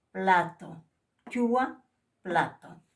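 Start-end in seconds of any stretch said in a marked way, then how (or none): 1.3-1.8 "Chua" said loud and clear with a plain ch; plain ch model. Shown as a demonstration. Teacher modelling the plain ch in Aymara. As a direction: model "Chua" loudly for repetition. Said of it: "cuando se pronuncia la che limpia".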